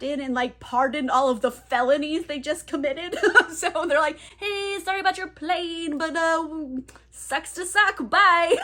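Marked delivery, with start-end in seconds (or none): 4.4-8.6 high, sing-out fake sorry; flippant mock apology. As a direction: toss off a glib high-pitched goodbye. Breezy mock apology before leaving.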